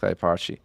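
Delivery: Carapace said quickly as "cara-PAH-shee"; chosen mispronunciation. Shown as a demonstration. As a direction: end Carapace in an "ee" sound. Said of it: "I'm gonna call it".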